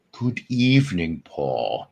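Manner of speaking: lightly voiced droll host greeting, falling away at the end; hint of a film-director impression, dropping low on the name; measured mock-sinister greeting; Alfred Hitchcock.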